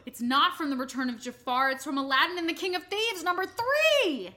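loud, high, rising outburst; excited realisation. Real, not acted. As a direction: burst out with the correction, stretching the end. Sudden discovery of the mistake.

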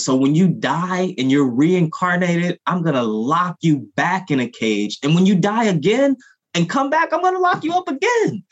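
high, outraged mock voice of the system, climbing with each line; a sarcastic impression of a jailer who never lets go; mocking the justice system. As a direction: sneer it out as the cruel system, pitch soaring. Mocking the system's endless sentencing.

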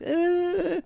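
high-pitched, drawn-out mock terror; mock slow motion. Host mocking actors gawking at the destruction, in slow-motion terror. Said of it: "people looking at each other in slow motion like".

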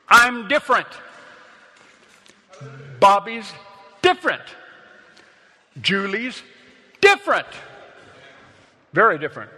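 loud, rising proclamation; preaching shout. Acted.

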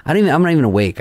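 high, bewildered protest; retold panic. Just woken and being beaten by his assistant, retold panic. Reliving being attacked in bed.

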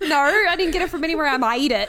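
quick, laughing copy of an Aussie attempt; imitating the accent. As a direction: parrot a clumsy Australian accent, fast and giggly. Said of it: "The way you said that, no, I made it".

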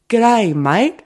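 high-pitched mock "English" accent that lands Australian; Aussie-sounding attempt at English. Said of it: "Can you do an English accent?".

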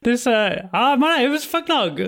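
high-pitched owl-person voice; owlin Fugnog. Acted.

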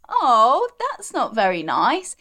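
a kind, gently surprised oh; mild kind correction of yourself; self-compassion. Retold or imitated. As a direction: soften toward yourself mid-thought. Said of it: "compassion for self and like".

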